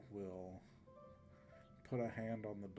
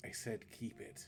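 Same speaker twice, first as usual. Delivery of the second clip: a bit gruffer and slower. Game master voicing a character who turns down the players' coin, a bit more gruff. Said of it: "His voice gets a bit more gruff".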